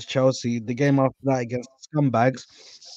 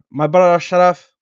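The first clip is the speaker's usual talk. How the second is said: Ashraf said in an exaggerated posh English way, higher and louder; mock his own English-sounding intro of "Ashraf"; hella English accent; 4 semitones higher, 8 dB louder than usual. Shown as a demonstration. Host re-introducing his brother in an exaggerated English accent. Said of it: "I said it hella English like".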